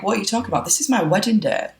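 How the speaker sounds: high-pitched imitation of an outraged bride; mock indignant bride. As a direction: play the bride taken aback, lightly exaggerated. Acts an imagined indignant bride.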